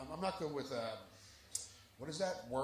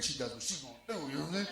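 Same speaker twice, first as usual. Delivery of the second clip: fast; 4 semitones lower, 6 dB quieter, much faster than usual. Real, not acted. Bragging player.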